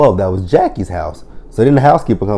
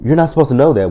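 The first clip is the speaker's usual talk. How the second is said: mock shocked Vanessa; 7 semitones higher than usual. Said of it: "she's like".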